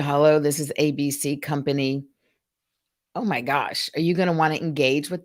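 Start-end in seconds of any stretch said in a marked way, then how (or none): 0.0-2.0 mock weary receptionist; tired greeting. Shown as a demonstration. Trainer mimics an unenthused receptionist answering the phone. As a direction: sound like you'd rather be anywhere else. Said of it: "really tired and they just talk like this".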